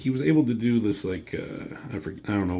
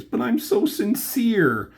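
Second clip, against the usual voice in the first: mock earnest; 13 semitones higher, slower than usual. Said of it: "She's like".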